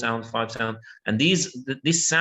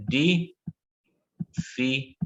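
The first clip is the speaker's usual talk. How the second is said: very slow syllable split; much slower than usual. Shown as a demonstration. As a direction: stretch Difficulty out syllable by syllable, ending on a rise. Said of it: "Yeah, again".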